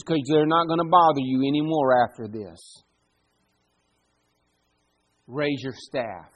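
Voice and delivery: a hint of calm commanding God. God calms Moses before the sea, lightly voiced and commanding. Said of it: "God tells Moses".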